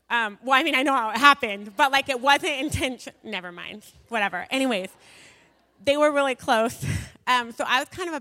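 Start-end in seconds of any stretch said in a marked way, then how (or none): 0.1-3.1 embarrassed laugh. Real, not acted. Embarrassed aside about unplanned pregnancy.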